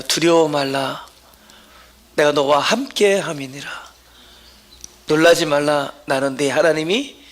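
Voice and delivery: scripture reading. Acted. Reads scripture slowly to congregation.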